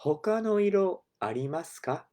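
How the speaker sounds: customer asking. Shown as a demonstration. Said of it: "we could ask".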